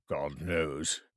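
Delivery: said through a yawn; lazy yawn on the words. Acted. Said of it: "said the first with a yawn".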